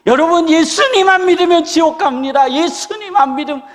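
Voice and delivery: high, loud street megaphone call; megaphone preacher. Retold or imitated. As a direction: announce it like through a megaphone. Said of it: "메가폰을 들고". (메가폰 든 전도자 흉내)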